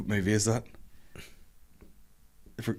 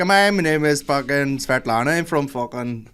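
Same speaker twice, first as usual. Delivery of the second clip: put-on slow, higher Eastern European accent mixed with Northern Irish; Polish-Belfast mixed accent; 4 semitones higher, slower than usual. Polish person introducing herself, mixed Polish-Northern Irish accent. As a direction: imitate a Pole with a Belfast twang. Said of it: "it's mixed with here".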